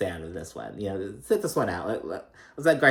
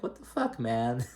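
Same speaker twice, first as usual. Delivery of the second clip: mock outrage; 6 dB quieter than usual. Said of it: "Kyle's like".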